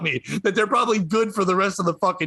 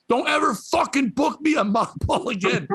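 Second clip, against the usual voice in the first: higher-pitched, mock angry protest; retold yelling; 5 semitones higher than usual. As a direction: retell an indignant telling-off. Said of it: "I yelled at the owners".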